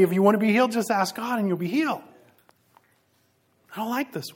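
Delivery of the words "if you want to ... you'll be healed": loud, higher, mock eager voice. Real, not acted. Preacher mocking passages that promise instant healing, loud and teasing. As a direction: hype up the easy promise, teasing.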